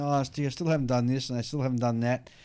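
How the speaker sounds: normal talking voice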